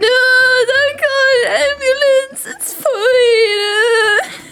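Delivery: high, laughing, half crying; laugh-crying protest. Retold or imitated. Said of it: "And I was like".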